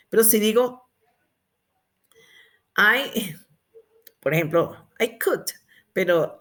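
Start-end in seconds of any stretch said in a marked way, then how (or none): 5.0-5.5 COOKED in one syllable, "kukt"; correct past ending. Shown as a demonstration. Teacher modelling "yo cociné", correct past ending. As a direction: close COOKED straight on the T. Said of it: "yo cociné".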